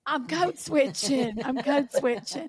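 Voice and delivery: put-on stretched-out Southern accent, half laughing; mock Southern drawl. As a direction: draw out a playful Southern echo. Playfully echoes the other speaker's drawl.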